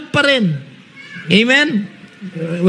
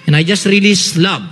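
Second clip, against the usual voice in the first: spoken prayer. Shown as a demonstration. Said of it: "just declare".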